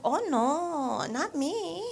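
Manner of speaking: a lighter echo of the squeaky denial; second nail tech. Retold or imitated. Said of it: "she's like".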